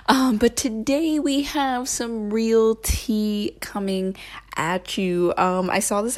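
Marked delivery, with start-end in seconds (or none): none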